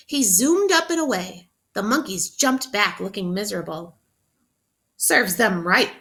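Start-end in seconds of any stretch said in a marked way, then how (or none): 5.0-6.0 smug. Acted. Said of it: "thought Charlie".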